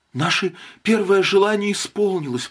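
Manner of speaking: delirious. A narrator's reading. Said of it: "будто в бреду".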